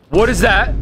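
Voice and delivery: a jolt of surprise on what; startled question. Real, not acted.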